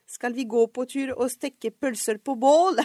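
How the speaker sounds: slow, measured beginner's lesson sentence; textbook recital. Acted. Learner recalling what she was taught, slow recital. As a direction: recite it carefully like a learnt phrase. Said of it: "Jeg husker også å ha lært".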